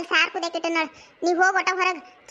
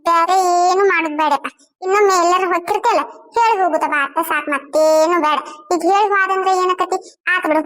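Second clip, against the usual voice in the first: scolding mother; 7 dB louder than usual. Acted. Mother scolds son for leaving.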